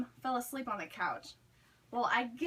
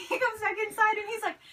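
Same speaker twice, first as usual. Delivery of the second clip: laughing through the words, pitched up; real giggle breaking into speech; 8 semitones higher, 4 dB louder than usual. Real, not acted. Laughing while telling the story.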